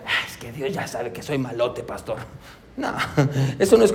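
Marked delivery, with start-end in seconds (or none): 0.1-2.2 much lower and softer, a shrugging mumble; mock lazy excuse. Pastor mimicking a churchgoer's excuse, low and mumbled. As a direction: play the careless sinner making excuses.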